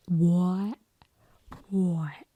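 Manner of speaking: WHITE with a broad, rounded Essex vowel, like "woy"; mock Essex "white". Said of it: "when people say certain words".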